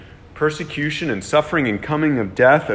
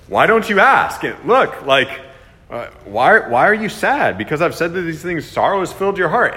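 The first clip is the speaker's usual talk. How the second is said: a hint of Jesus asking kindly, higher; gentle Jesus quoted; 4 semitones higher, 4 dB louder than usual. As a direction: voice Jesus coaxing his sad disciples. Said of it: "He said".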